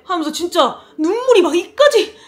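usual speaking voice

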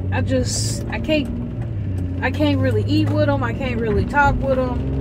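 toothless, lips slack; no dentures in. Real, not acted. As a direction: talk without dentures. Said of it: "I still ain't put my teeth in".

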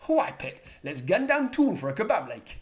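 high, loud Newcastle Geordie; Geordie accent. Acted. Vlogger imitating people from Newcastle, Geordie accent. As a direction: belt it out like a Geordie. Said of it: "they include Geordie people".

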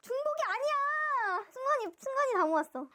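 overjoyed high-pitched fan scream; ecstatic squeal. Real, not acted. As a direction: shriek with relief and triumph. Realizes she completed the set.

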